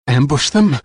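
gritted teeth, in pain; through clenched teeth. A narrator's reading. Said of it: "Through clenched teeth".

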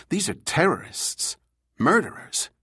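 high-pitched protest, word by word; scoffing. A narrator's reading. Juan argues against negotiating with the kidnappers, scoffing. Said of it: "Juan scoffed".

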